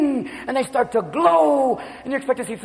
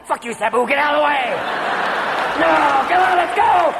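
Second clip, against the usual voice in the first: angry wife; 3 semitones higher than usual. Retold or imitated. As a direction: shove past him yelling. Wife yelling at attendant.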